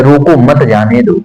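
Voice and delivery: no break between "रोको" and "मत"; मत joined to रोको. Shown as a demonstration. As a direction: run "रोको" straight into "मत", then "जाने दो". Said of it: "लेकिन इनका अर्थ अलग-अलग है".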